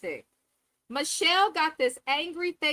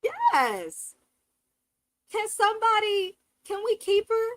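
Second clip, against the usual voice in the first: excited; 8 semitones higher, 5 dB louder, slower than usual. Real, not acted. Delighted reaction to Lacey.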